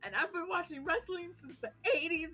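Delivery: high-pitched tearful fan gushing; hammed-up starstruck weeping; mock crying. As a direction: blubber your devotion to your idol. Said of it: "literal crying".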